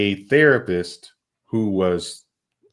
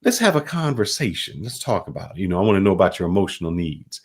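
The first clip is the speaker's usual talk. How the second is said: mock younger generation. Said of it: "where they say".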